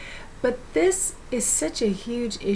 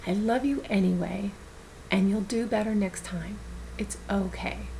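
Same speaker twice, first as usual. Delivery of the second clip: 1 tender self-love; 3 dB quieter than usual. Shown as a demonstration. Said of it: "look in your own eyes, say your name, and say".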